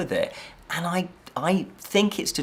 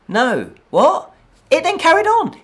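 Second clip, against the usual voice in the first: incredulous outburst; 12 semitones higher, 8 dB louder than usual. Real, not acted. Film keeps going after ending.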